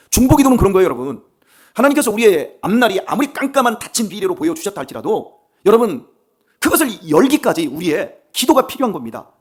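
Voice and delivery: loud, high-pitched declaration of faith; fervent preaching. Acted. Preacher to congregation, shouting his faith at full force. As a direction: proclaim it to the whole church at full force.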